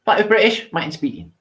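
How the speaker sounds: high, punchy catchphrase call; catchphrase sign-off. Shown as a demonstration. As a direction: announce it like your signature line. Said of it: "famous catchwords".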